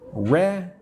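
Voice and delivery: "Recommended" broken into rec-com-men-ded, long gaps between; syllable by syllable. Shown as a demonstration. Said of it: "How many syllables?".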